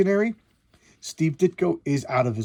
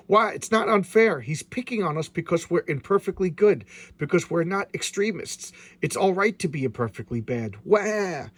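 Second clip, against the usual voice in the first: whiny villain; 3 semitones higher than usual. Acted. Voicing a sulking comic villain, high whiny complaint. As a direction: whine like a spoiled crook.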